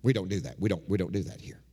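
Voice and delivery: a hint of a stiff church elder scolding; stern deacon. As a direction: shut her down like a cold deacon. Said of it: "one of the deacons stepped down and said".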